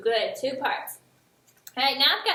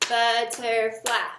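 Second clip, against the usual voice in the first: "Butterfly" said slow as but-ter-fly, one beat each; clapping syllables; much slower than usual. Shown as a demonstration. Teacher clapping out butterfly together with students. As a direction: stretch "Butterfly" into three clapped beats. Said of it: "Now let's do it together".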